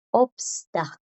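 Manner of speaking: "obsta" forzando cada consonante, con la S audible; todas las consonantes pronunciadas. Shown as a demonstration. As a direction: say "obsta" sounding out the S before the T. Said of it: "si quiero decirlas todas". ("obsta" pronunciando todas las consonantes, con la S)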